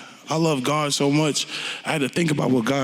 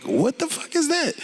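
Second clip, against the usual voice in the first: mock disbelief; 13 semitones higher than usual. Mock shocked reaction quote.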